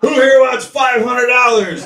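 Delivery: a slow, tempting announcer's shout; mock ring announcer baiting the crowd; hyped announcer. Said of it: "and I'm quoting".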